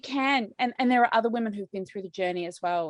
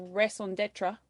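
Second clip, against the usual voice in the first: French accent; 4 dB quieter, slower than usual. Real, not acted. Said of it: "excuse the horrible French accent".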